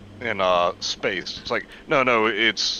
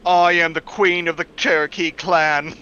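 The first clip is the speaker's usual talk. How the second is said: mock quote; 3 semitones higher, 3 dB louder than usual. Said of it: "I have to say it".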